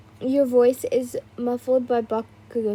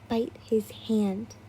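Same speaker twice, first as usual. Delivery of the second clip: inner whisper; 2 semitones lower, 6 dB quieter, slower than usual. A narrator's reading. Inner voice urging quietly.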